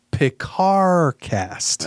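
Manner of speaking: lightly put-on voice, drastically stretched out; Picard. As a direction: draw it out slowly with mock grandeur. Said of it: "do it in the voice of my".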